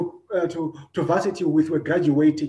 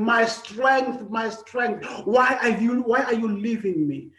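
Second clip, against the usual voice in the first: higher-pitched, pleading cry of abandonment; higher anguished plea to the Father; anguished cry to God; 5 semitones higher than usual. Acted. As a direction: cry out to God as if forsaken, voice lifted. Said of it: "Christ is crying out to God saying".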